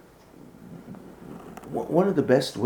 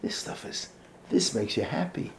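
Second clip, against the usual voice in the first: rising higher, eager joy; mock excitement; 6 semitones higher than usual. Children feeling Torah's joy, lightly voiced excitement. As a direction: sound thrilled about it. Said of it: "they got that sense of".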